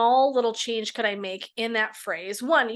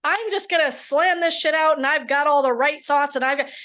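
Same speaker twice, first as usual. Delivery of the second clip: pumped-up mock bravado; 4 semitones higher, 4 dB louder than usual. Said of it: "people also hit an ear and go".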